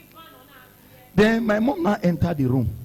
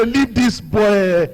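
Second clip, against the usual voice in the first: angry; 6 semitones higher, much slower than usual. Retold or imitated. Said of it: "My wife changed down".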